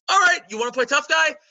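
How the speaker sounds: high, loud sarcastic challenge; mock tough guy. Challenging a stubborn shopper, sarcastically high. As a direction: taunt him, hammed-up. Acted confrontation, sudden switch.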